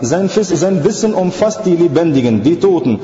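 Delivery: insistent sermon cadence; emphatic religious oration; rhythmic preaching. Real, not acted. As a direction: preach it as a measured, driving list.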